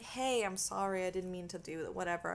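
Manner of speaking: soft, subdued mock apology; apologizing. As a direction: say sorry quietly, backing down. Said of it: "I would start apologizing".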